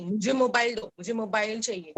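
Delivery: put-on a touch of a stubborn child insisting; mild demanding child. Shown as a demonstration. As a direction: demand it like a mildly pushy kid. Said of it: "जिद नहीं करना है".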